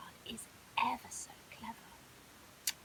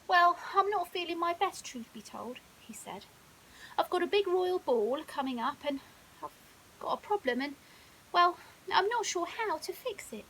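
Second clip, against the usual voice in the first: troubled lion cub; 5 semitones higher, 8 dB louder than usual. Acted. Leo troubled.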